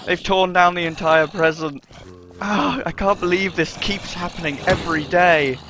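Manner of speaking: loud, high dismayed cries; distressed shouting. Acted. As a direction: wail as it falls apart. Present destroyed by zombies.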